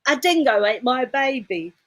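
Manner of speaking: hammed-up Australian accent; Meryl Streep. Shown as a demonstration. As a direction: quote the line in a film-star Aussie accent. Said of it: "That's the Meryl Streep Australian accent".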